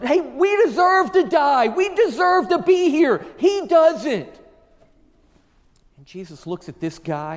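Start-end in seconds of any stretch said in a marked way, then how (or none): 0.0-4.4 loud, high-pitched shout as the thief on the cross; retold yell. Criminal on the cross to the other criminal, retold yell. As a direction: call it out across to the other man. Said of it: "and he yells at".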